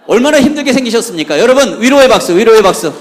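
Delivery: rally the crowd at full volume; loud rallying call. Real, not acted. Calls audience for applause. (크게 박수를 유도하는 외침)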